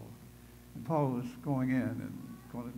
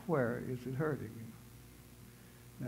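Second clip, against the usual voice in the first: voice of God; 4 dB quieter, much slower than usual. Retold or imitated. God speaks to him, slow soft.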